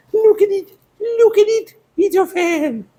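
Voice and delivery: very high, squeaky excited squeal; giddy delight. Real, not acted. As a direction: squeal with glee in a tiny high voice. Delighted at finding a little fan.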